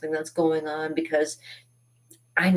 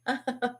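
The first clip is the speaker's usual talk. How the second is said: mock cry; 9 semitones higher, 5 dB quieter than usual. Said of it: "And he went".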